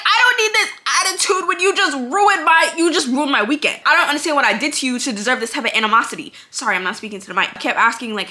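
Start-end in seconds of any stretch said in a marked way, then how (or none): 0.0-6.3 exasperated outburst. Retold or imitated. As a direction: let the frustration spill over. Retold outburst at rude agent.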